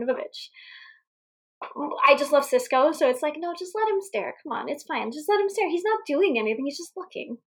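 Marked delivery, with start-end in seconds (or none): 3.4-7.4 higher, softer coaxing; a lightly acted, high-pitched plea on his behalf; mock pleading. Podcast host defends the staring crush, in mock pleading. Voicing a plea to let him stare.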